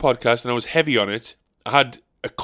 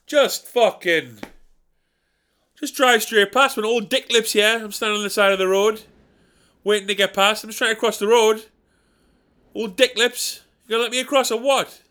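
martyred grumbler; 5 semitones higher than usual. Acted. Old Dick Lips at zebra.

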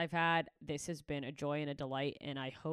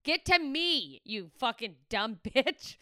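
mock-furious yell, loud and high; slow, punched-out shout easing into a laugh; the speaker screaming; 7 semitones higher, 8 dB louder, slower than usual. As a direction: imitate an exasperated friend screaming at the radio. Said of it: "she's literally screaming right now".

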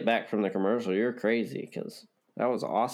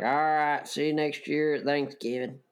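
put-on country accent; 3 semitones higher than usual. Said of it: "I like that country accent you got".

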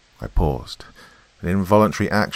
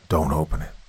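stern father warning. A narrator's reading.

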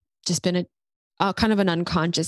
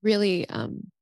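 crying. Real, not acted. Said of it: "the reason why I'm crying".

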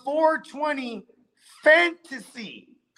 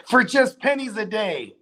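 infomercial voice. Pretend. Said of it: "make that the, uh, the little commercial".

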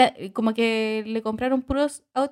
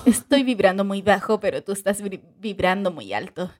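dubbing voice; 3 semitones lower than usual. Retold or imitated. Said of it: "le pones esa, como así".

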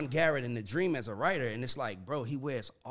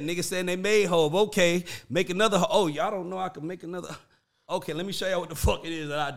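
imitating angry; 3 semitones higher, 6 dB louder than usual. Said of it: "I felt it was angry".

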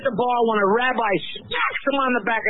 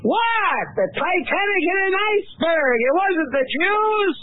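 high-pitched, affronted comic outburst; indignant protest; 7 semitones higher, slower than usual. Acted. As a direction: protest a ridiculous accusation. Rabbi protests the blame.

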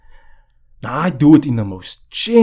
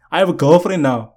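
proud declaration; 3 semitones higher than usual. Shown as a demonstration. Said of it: "it's nice to say, actually, public".

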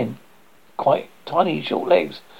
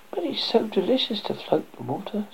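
dreamy duckling voice; 7 semitones higher, 6 dB quieter than usual. Acted. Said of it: "said the duckling".

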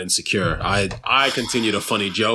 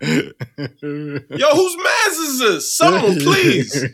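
high, drawn-out comic wail; hammed-up cry for someone to intervene; mock exasperated plea; 10 semitones higher, much slower than usual. Comic begs bystanders to claim his co-host, mock exasperated plea.

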